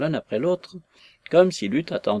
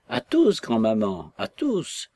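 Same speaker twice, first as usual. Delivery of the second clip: aloud; slower than usual. Acted. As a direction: call it out again so grandma hears. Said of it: "répéta-t-il à haute voix".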